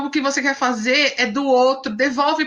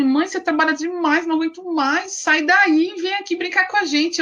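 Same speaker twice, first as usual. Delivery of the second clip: put-on higher, pleading little-girl voice; imitating the daughters; 4 semitones higher than usual. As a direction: lightly play the kids begging mom to come play. Filhas pedem para a mãe brincar. (imitando as filhas, mais aguda e pidona)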